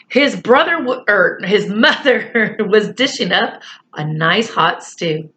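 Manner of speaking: lightly voiced children's story reading; story narration. A narrator's reading. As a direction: read the story along evenly to young listeners.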